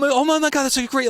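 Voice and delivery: high, loud, gushing reenactment; gushing amazement. Retold or imitated. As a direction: gush like an awestruck fan. Acting out his amazed reaction.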